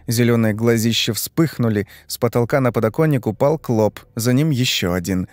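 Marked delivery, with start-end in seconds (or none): none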